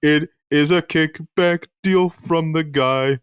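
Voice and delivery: slow deadpan. Acted. Deadpan corporate Oompa Loompa.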